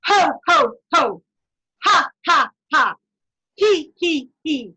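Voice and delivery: loud ho ho, ha ha, he he, then a high whee; laughter sequence. Shown as a demonstration. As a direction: climb from belly to throat and fling out the whee. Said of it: "Ready? Go".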